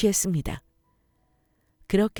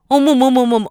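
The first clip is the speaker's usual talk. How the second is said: much louder shocked exclamation; shocked gasp; 6 semitones higher, 11 dB louder than usual. Acted. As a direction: gasp in outrage. Mother-in-law shocked by slap. (깜짝 놀란 외침)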